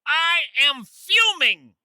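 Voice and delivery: mock fuming. Host phones guest to complain.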